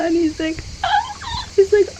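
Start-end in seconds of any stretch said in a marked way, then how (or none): 0.9-1.5 surprised. Retold or imitated. Host's surprised exclamation.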